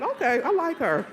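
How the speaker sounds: amused, laughing admiration; laughing approval. Retold or imitated. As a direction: say it laughing in delight. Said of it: "I said".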